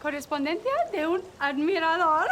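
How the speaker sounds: high, excited cartoon girl voice; very high and chirpy; bubbly puppet girl. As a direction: gush at the fans like a squeaky puppet. Puppet character Felicity greets fans.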